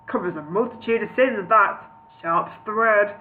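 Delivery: lightly voiced comic wizard; a touch of impression on the wizard's lines; Mister Bean. Wizard chuckling to himself, light Mister Bean voice. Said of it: "Why did I choose Mister Bean for Gandalf?".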